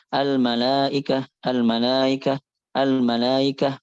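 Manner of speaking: AL-MALAIKAH gliding from "laa" into "ikah" without a catch; softened hamzah. Shown as a demonstration. Teacher shows forbidden tashil, softened hamzah in AL-MALAIKAH. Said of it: "dengan tashil. Jangan sampai dibaca".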